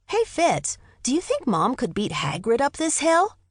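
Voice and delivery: put-on high, playful kid voice; joking boy voice. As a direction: joke to your brother about Mom.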